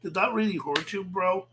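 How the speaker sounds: mocking baby-the-victim sympathy. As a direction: taunt him with fake pity. Mocks rival's complaint after clip.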